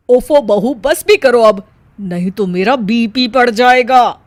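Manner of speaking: loud, fed-up plea; mother-in-law pleading, her blood pressure rising; pleading exasperation. Acted. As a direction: beg her to stop rhyming. Mother-in-law begging her to stop.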